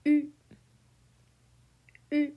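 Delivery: U said with rounded lips and an ee tongue; French U. Shown as a demonstration. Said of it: "Let's give it a try".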